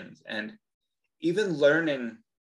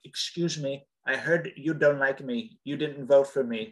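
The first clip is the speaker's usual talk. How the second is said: Trump impression. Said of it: "I wanna call her and be like".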